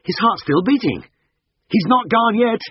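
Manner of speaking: hoarse cry. Acted. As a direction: cry out as you feel the heartbeat. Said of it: "I jerked upright with a hoarse cry".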